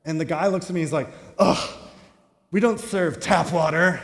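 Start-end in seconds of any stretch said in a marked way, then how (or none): 1.4-4.0 irritated, scornful barista; annoyed barista. Retold or imitated. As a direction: scoff at the customer. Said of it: "kinda get angry with me".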